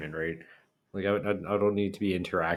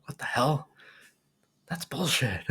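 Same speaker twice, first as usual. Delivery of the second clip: imitating dad; 6 semitones higher than usual. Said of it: "he'll say in French".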